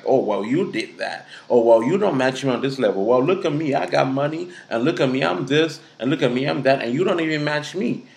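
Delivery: lightly put-on haughty bragging; singsong list of self-important claims; mock boasting. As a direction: mimic someone looking down on a partner. Mimics boastful projecting person.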